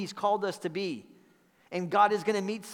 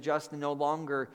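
gentle whisper; 4 semitones lower, 5 dB quieter than usual. Retold or imitated. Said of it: "or gently whispered to me".

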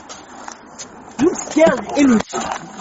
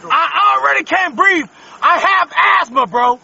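screaming. Real, not acted. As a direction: yell it out in real panic. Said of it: "you're screaming pretty well".

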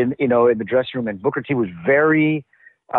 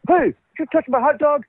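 suspicious question; 12 semitones higher than usual. Retold or imitated.

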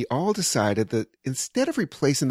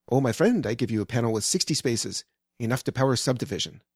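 feeble mock Iranian accent; amateur imitation of an Iranian accent; imitated Iranian accent. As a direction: play the Iranian electrician overselling, accent lightly put on. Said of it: "mimic his accent".

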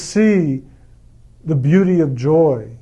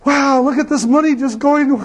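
much higher, ironic wow at money leaving; higher, tongue-in-cheek amazement at an emptying wallet; mock enthusiasm; 8 semitones higher than usual. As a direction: fake delight at spending. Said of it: "we get really enthusiastic is when you take out your wallet and you go".

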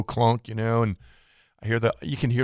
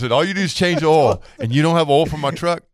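indignant disbelief; 4 semitones higher, 5 dB louder than usual. Retold or imitated. Customer confronts oil shop.

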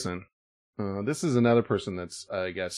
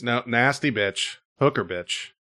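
slow mimicry; 2 semitones lower than usual. Shown as a demonstration. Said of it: "we're trying to break it down".

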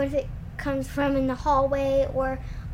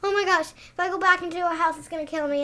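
mildly higher, panicky retelling; retold panic; 5 semitones higher, faster than usual. Girl recalling fleeing the house, mild panic. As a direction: relive the fright, lightly. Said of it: "and I'm like".

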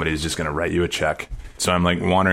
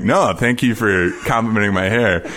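imitating Messner; 4 semitones higher than usual. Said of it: "Reinhold Messner, like, actually being like".

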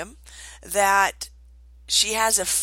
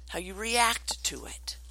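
whispered ending; 6 dB quieter than usual. Acted. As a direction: drop to a whisper. Quote ending hushed.

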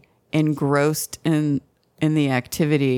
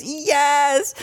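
mock breathy yes; 11 semitones higher than usual. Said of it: "She goes".

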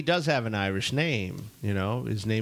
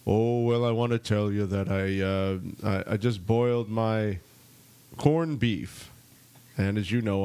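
put-on halting presidential answer in a rough Irish accent; badly faked Irish accent, measured and slowing; Obama with Irish accent. President answering a reporter at a news conference, badly faked Irish accent. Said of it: "That's my best Obama accent".

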